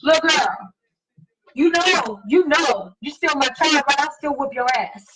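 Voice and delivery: lightly voiced mama threatening a whooping; mother scolding her grown daughter, mock-stern; mom's warning. Mom warns daughter.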